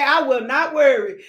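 loud call to repeat; congregation declaration. Shown as a demonstration. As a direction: lead the church in declaring it.

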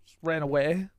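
whispered aside; whispered punchline. Real, not acted. Telling his friend he fled, whispered.

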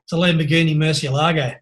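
put-on matter-of-fact Australian accent; ocker Aussie accent. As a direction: state it in an everyday Aussie accent. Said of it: "in my very ochre Aussie accent".

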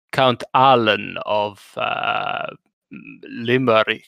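slow, drawn-out spooky count title; lightly hammed vampire announcer; mock count. Host introduces his co-host as a spooky count.

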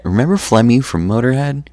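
loud, high, fast rocker bark; hammed-up heavy metal singer shout; mock metal-band rocker. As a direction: ham up a metal frontman yelling the hit. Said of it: "That's what he'd do".

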